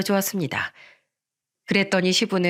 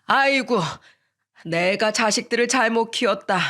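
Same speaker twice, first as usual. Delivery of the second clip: put-on higher, wronged old man wailing; father complaining his children betrayed him; mock lament rising to anger; aggrieved angry father; 3 semitones higher than usual. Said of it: "억울하다는 듯이 화를 냈습니다".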